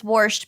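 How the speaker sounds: "warsht" with an R before the SH; grandma's "warsht". Retold or imitated. Host quoting grandma from North Dakota, "warsht" with an added R. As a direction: put an R into washed: "warsht". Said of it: "My grandma says "warsht".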